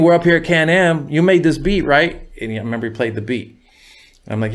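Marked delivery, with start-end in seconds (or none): 0.0-2.3 higher, scratchy mock-scolding homie; raised, put-on scratchy voice; Big C Style's voice. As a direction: imitate him calling you an idiot. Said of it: "that's how he talked. His voice was kinda scratchy".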